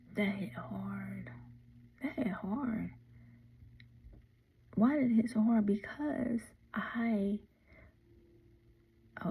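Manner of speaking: holding back tears. A mother marking twenty-five years since her child's birth, holding back tears. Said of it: "I'm holding back tears".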